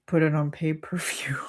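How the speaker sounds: whispered aside, unvoiced and soft; joking whisper. Real, not acted. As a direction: breathe it like a secret joke.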